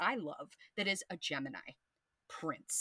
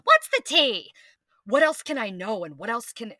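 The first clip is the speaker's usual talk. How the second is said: loud, eager What's the tea; hungry for the gossip, loud; 3 semitones higher, 10 dB louder than usual. Pretend. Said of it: "wants to be".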